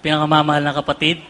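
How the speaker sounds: trembling voice from the cold; shivering. Real, not acted. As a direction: speak while shaking with cold. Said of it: "Nanginginig ako sa lamig ngayon".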